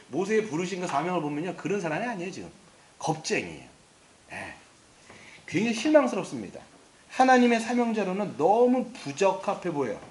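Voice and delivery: ordinary delivery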